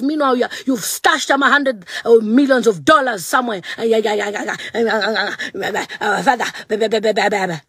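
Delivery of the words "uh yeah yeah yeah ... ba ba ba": mock blubbering. Mocking blubbering.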